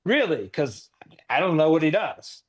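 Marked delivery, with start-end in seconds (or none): 0.0-0.5 retold surprise, higher pitched; surprised. Telling host how he reacted to the doctor's verdict, surprised. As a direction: re-enact a taken-aback reaction. Reenacting his reaction to test results.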